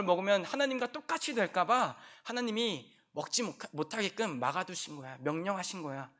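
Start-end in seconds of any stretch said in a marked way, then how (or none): none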